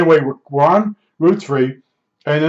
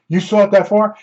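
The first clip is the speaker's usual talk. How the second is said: mildly excited retold question, higher pitched; raised pitch, a touch of excitement; 5 semitones higher than usual. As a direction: imitate an excited man's surprised question. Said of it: "He's getting all excited".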